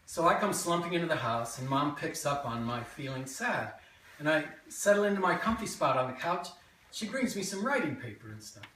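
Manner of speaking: lively memoir monologue with swinging pitch; animated childhood tale, present tense; stage storytelling. Acted. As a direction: tell it to a live audience as your younger self. Performs a written memoir monologue.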